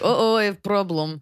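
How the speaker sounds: lightly put-on Russian accent; fake Russian accent. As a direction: imitate a faked Russian accent. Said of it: "she faked a Russian accent".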